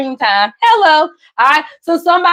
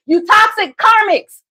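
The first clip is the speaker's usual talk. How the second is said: higher, slow, drawn-out scolding jab; sassy callout; 6 semitones higher than usual. Real, not acted. Reader scolding toxic commenters, slow sassy callout. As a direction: talk down to them slowly.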